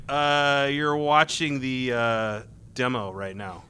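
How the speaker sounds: slow, careful retold correction; hesitant correction. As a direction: break it to them slowly, in an even voice. Pointing out an embarrassing mistake.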